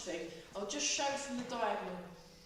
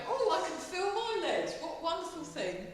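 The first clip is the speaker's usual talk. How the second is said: high, loud gushing over aching legs; hammed-up joy at sore legs; mock delight; 8 semitones higher, 5 dB louder than usual. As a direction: gush like your legs are thrilled.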